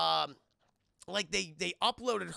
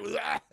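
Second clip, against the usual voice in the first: short imitated vomit noise; mock retching; 2 semitones higher, 5 dB louder than usual. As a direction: retch out a quick bleh. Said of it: "R two is just vomiting mud".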